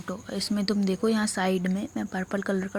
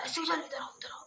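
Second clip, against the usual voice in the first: hushed, hurried call to come away; urgent whisper; 4 semitones higher, 11 dB quieter than usual. Retold or imitated. Mother quietly calling her daughter away from danger, whispered.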